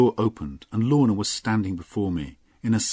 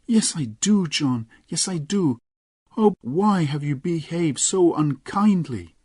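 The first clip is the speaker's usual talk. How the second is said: put-on higher young woman's voice, tearful reproach; Lorna, pleading; 9 semitones higher, 4 dB louder than usual. Lorna to John in his arms, high pleading voice. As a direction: plead with him, voice lifted high.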